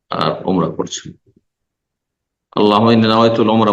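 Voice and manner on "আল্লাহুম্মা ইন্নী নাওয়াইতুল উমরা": wrong formula, rattled off. Shown as a demonstration. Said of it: "বলবেন না".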